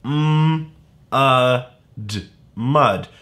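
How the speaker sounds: "M-, uh, d-, mud" split into sounds; sounding out. Shown as a demonstration. Teacher sounding out "mud" for young readers. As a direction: tap out each sound, then blend to "mud". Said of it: "I hear it too".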